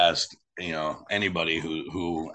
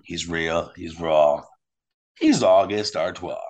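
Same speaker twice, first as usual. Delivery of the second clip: wrestler catchphrase; 2 semitones lower, 3 dB louder, slower than usual. Acted. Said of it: "Has a nice ring to it".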